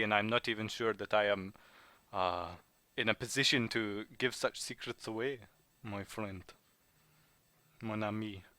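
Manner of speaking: put-on measured, halting French-accented English. Informant holding out for handsome pay, French accent. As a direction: bargain carefully in a French accent. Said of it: "your French accent".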